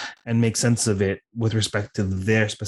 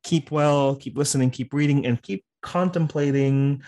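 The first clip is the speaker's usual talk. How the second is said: upbeat host outro, a bit faster; formal podcast sign-off; 3 semitones higher than usual. Real, not acted. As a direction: wrap up the show like a radio host. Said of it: "while I formally sign off".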